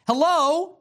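exasperated hello. Real, not acted. Sarcastic appeal to the opposing side.

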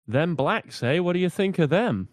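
faux-casual probing, lilting up; mock casual question. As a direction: drop it in like awkward small talk. Acting out an awkward playdate question.

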